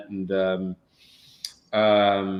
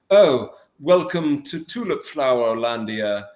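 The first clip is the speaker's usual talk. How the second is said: slow, plummy British royal welcome; mock royal-movie English accent; 4 dB louder, slower than usual. Actor spoofing royal movies, mock English accent. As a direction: lay on a grand English accent, unhurried. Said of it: "everybody speaks as if they're".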